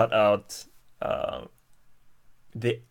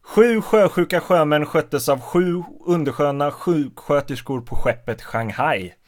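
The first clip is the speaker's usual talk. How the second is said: Swedish tongue twister in one long run, starting higher and settling; 4 semitones higher than usual. Shown as a demonstration. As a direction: recite the Swedish tongue twister straight through. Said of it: "Okay, here it goes".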